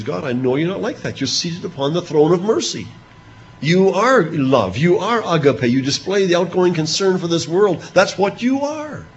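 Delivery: a man reasoning tenderly with his God; Abraham pleading. Acted. Abraham praising God's mercy, in a lightly voiced earnest plea.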